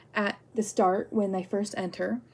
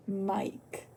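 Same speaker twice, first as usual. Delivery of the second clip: soft, voiceless whisper; whispered name; 8 dB quieter than usual. Real, not acted. Speaker inventing a name for the ex, whispered. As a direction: whisper the alias after a long think.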